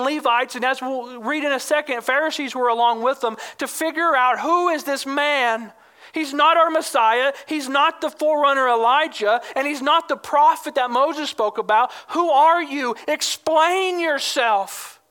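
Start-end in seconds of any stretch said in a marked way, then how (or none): 4.4-15.0 higher, insistent questioning; demanding an answer. Retold or imitated. Delegation sent to identify the man, demanding and frustrated. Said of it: "They demanded an answer".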